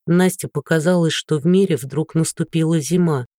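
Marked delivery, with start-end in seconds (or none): none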